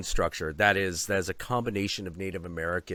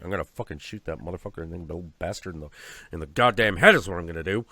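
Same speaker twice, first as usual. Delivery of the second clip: imitating angry threat; 4 semitones lower, faster than usual. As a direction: spit out the threat like a cranky writer. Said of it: "And he's like".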